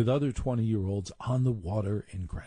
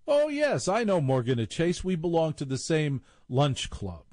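posh society voice; 5 semitones higher than usual. Retold or imitated. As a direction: trill the Oh yes like an old club member. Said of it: "talking like they're sixty-five".

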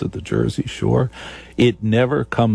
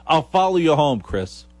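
swooning fan; 6 semitones higher than usual. Acted. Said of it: "he's just said a sentence".

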